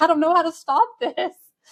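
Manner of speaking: high, loud, anxious, helpless pleading voice. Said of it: "And I'm like".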